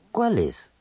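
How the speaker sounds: "¿Cuál es?" falling with stress on "cuál"; exclamation. Shown as a demonstration. Radio teacher demonstrating admiración, exclaiming. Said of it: "en preguntas o admiración".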